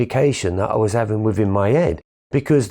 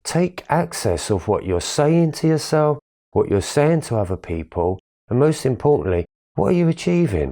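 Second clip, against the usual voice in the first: voice of God; 5 semitones higher than usual. Retold or imitated. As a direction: let a higher power stop you in your tracks, lifted and measured. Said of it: "the hand of God comes in and says".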